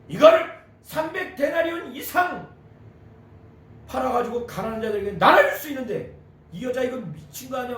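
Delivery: acted indignant questioning; angry disciples. Disciples berating the woman for wasting perfume, angry. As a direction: scold the waste in a mock-outraged voice. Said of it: "아주 자기들끼리 화가 나가지고".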